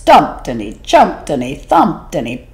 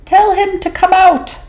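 much higher sly little fish; 'stute fish reply; 14 semitones higher, 4 dB louder than usual. Acted. Small fish advising the whale, high and sly. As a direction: squeak it up small and cunning.

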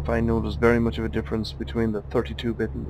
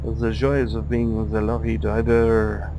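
playful mock French accent, pitched up; silly French accent; 3 semitones higher than usual. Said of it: "doing a silly French accent".

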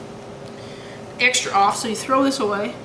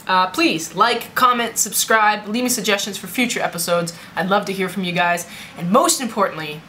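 lightly put-on southern accent; casual southern accent, hint of Australian; 2 semitones lower than usual. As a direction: sign off to viewers in a southern accent. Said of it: "I'm gonna talk in an accent".

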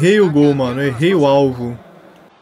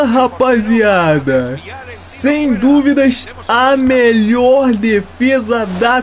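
amazed shouting; 5 semitones higher, slower than usual. Real, not acted. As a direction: scream in disbelief at the save. Amazing save by goalkeeper.

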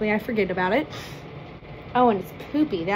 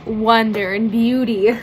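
mock grandeur; 6 dB louder than usual.

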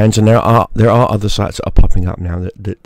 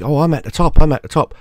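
higher, self-satisfied mock boast; mock smug creator; 6 semitones higher, faster than usual. Vlogger mocks an OnlyFans creator who thinks she's on top. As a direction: mimic a smug creator gloating. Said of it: "And you think".

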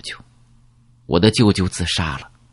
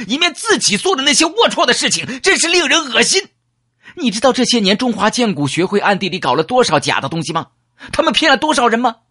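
shrill, much higher furious tirade, climbing to a near roar; voice jumps an octave; 13 semitones higher than usual. Acted. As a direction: rage at the Wumai, pitch soaring ever higher. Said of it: "他的声音一下子提高了八度". (声音拔高八度，近乎咆哮)

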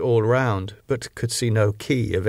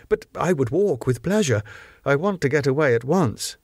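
higher, pressing to get out now; eager insistence; 4 semitones higher than usual. Acted. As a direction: push to leave at once, a little raised. Harker insists on leaving.

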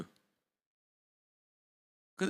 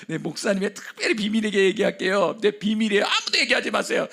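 laughing mock confidant; 3 semitones higher, 4 dB louder than usual. Imitating someone sharing a secret.

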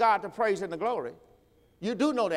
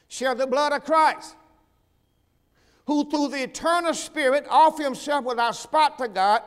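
thundering scripture from the pulpit; full-force preaching; 6 semitones higher, 6 dB louder than usual. Acted. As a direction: stretch each phrase out to the whole church.

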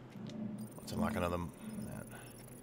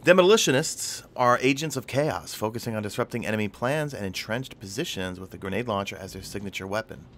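movie trailer voice. Acted. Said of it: "That's my movie trailer voice".

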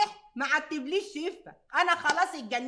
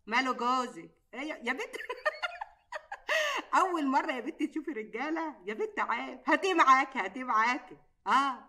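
usual speaking voice

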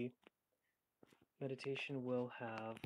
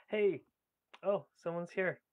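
loud, higher-pitched hello to a newcomer; pleasantly surprised greeting; 5 semitones higher, 11 dB louder than usual. Real, not acted. Streamer noticing someone has joined the live meditation, real surprise. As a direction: greet them suddenly, high and loud.

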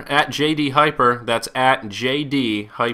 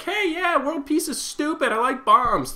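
much higher, goofy mock voice of a pro-bomb heckler; mocking a heckler who tells peace protesters he likes bombs, voice much higher; mock troll voice; 12 semitones higher, slower than usual. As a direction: play a dumb heckler baiting peace protesters, pitched way up. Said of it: "go over and be like".

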